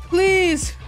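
desperate high plea; high pleading. Real, not acted. Begging during final fight.

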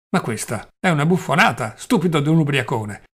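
a touch of an angry shout; half-voiced angry rebuke; shouting loudly. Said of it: "gridò forte Velchaninov".

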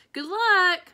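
high, loud call. A narrator's reading. Miss Franny calling from the kitchen, high loud. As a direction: call it from another room. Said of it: "Miss Franny called from the kitchen".

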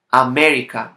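America with a loud punch on "me"; stressed syllable. Shown as a demonstration. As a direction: lean hard on the "me" in America. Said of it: "This is the penultimate syllable".

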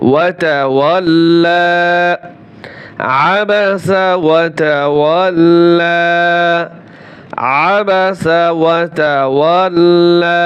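slow, chanted verse; Quranic recitation. Shown as a demonstration. Teacher recites the joined verse for students. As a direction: draw out every vowel melodically.

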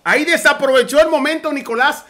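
real excited caster outburst with a laugh; excited outcry. Real, not acted. Caster groaning at Nicolás' missed punish, excited. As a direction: react to the missed chance, worked up.

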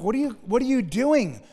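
exasperated Paul. Retold or imitated. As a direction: urge them back, stretching the key words. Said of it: "So Paul's like".

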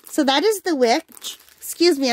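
talking through hiccups. Real, not acted. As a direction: speak while hiccuping. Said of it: "I've got the hiccups again".

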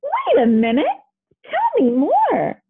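high, drawn-out demand; mild shouting. A narrator's reading. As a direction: insist on hearing the rest. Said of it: "Pluto shouted".

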